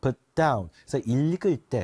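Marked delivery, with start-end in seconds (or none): 0.0-0.7 light "put", weighted "down"; stress on DOWN. Shown as a demonstration. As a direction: lean on the second word, "down". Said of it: "힘을 뒤에다 조금 더 줍니다".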